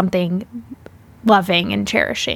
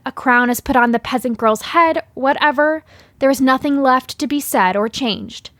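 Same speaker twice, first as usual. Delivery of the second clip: reading a letter. Acted.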